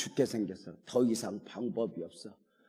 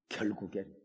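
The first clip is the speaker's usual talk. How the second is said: ordinary talk, nothing marked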